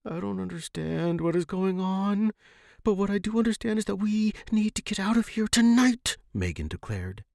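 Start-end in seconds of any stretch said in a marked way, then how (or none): 0.0-6.2 higher voice building to a firm, louder close; young friend insisting they must escape tonight; determined young woman. Acted. Megan's voice, determined.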